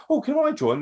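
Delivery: high, hopeful little ask; mock eager Millie. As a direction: ask sweetly to tag along. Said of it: "she's like".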